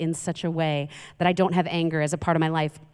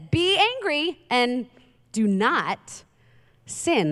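scripture reading; 4 semitones higher, much slower than usual. Real, not acted. Reads scripture aloud.

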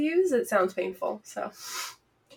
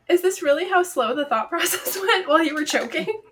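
laughing disbelief; 6 semitones higher than usual. Real, not acted. Incredulous laughing question.

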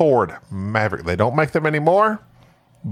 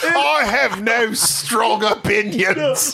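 milder host persona; 8 semitones higher, slower than usual. Pretend. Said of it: "but slightly milder".

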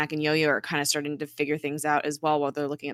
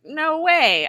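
incredulous refusal; 11 semitones higher, 7 dB louder than usual. Retold or imitated. Deke refusing.

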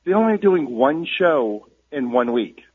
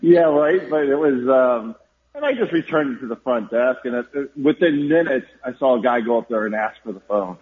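hollow, roomy phone sound; like calling from inside an empty box; echoing gym. Real, not acted. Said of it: "You sound like you're inside an empty shoebox".

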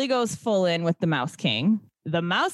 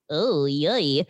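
flat, lower, deadpan "Oh, yay."; unenthused oh yay; 9 semitones lower than usual. Retold or imitated. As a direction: say "Oh, yay." low and flat, with no joy. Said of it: "But still is not like".

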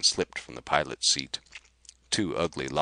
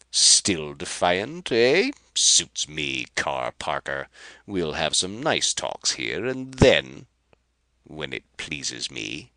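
gloating threat; 6 dB louder than usual. Acted. Rapaju threatening Carr.

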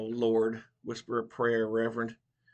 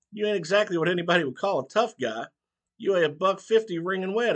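mocking old barber; 8 semitones higher, 4 dB louder than usual. A narrator's reading. Barber mocks Mitchell.

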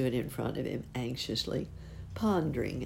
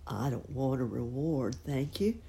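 grunting pig. Acted. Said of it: "grunted the pig".

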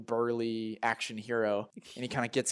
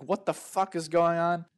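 higher, strained call over a din; mock yell; 6 semitones higher than usual. Director asks over the din, mock yelling. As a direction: imitate yelling over noise, half volume. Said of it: "trying to yell over the din".

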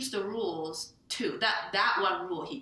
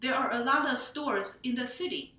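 lightly acted textbook-phrase recital, pitched up; school English; 4 semitones higher than usual. Author mimics her heroine's classroom phrases, light school-English recital. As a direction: recite stock beginner phrases like a language student. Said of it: "she understands school English".

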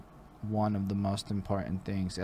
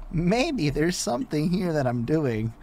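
Jewish thinking voice; 6 semitones higher, 11 dB louder than usual. Pretend. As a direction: muse it in a put-on inner voice. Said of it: "my Jewish thinking voice".

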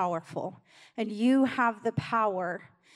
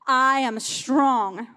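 louder, slow, firm declaration of I am strong; with conviction; 3 semitones higher, 9 dB louder, much slower than usual. Shown as a demonstration. Pastor leading the congregation in affirmation, firm and slow. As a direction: plant every word of I am strong like a vow. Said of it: "Say it with conviction".

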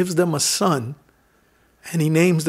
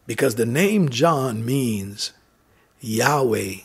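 hushed reverence; 6 semitones lower, 6 dB quieter, slower than usual. Acted. Revealing the meaning of the name.

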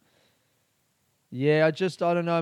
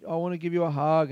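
heckler voice; 3 semitones higher, 3 dB louder than usual. Retold or imitated. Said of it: "she was like".

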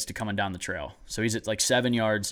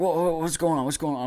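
retold alarm; 6 semitones higher than usual. Retold dad calling, alarmed.

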